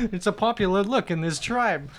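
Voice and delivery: put-on a light Tommy Wiseau accent, barely shifted; understated Tommy Wiseau accent impression. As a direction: slip into a hint of Wiseau's accent mid-story. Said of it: "that was my Wiseau accent".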